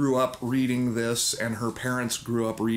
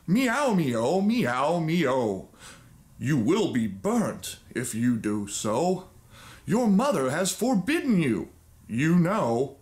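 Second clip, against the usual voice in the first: scolding cats; slower than usual. Acted. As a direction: meow at her like a cross cat. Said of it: "they said".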